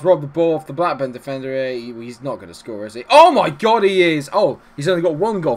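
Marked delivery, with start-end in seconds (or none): 3.1-5.6 loud, high shout of disbelief; surprised. Real, not acted. Amazed as the sub scores, shouting. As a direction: yell as the ball goes in.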